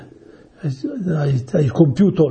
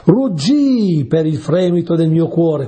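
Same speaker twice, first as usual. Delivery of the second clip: slow, drawn-out recital of the verse; solemn scripture reading; 3 semitones higher, slower than usual. Acted. Preacher reads the psalm to his listeners, slow and solemn. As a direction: read the line of the psalm with weight.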